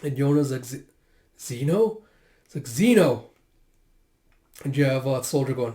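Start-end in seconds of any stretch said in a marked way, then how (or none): 0.6-2.0 halting, rising question; shocked stammer. Acted. Yona sees Zeno's blood, shocked stammer. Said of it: "Everyone's just shocked and taken aback". 2.7-3.2 louder, falling exclamation; cry of dismay. Acted. Companion cries out to fallen Zeno, dismayed call.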